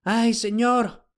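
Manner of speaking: high, slow, gasping cry; breathless after running up; panting out the words; panting old slave. A narrator's reading. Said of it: "jadeó el esclavo".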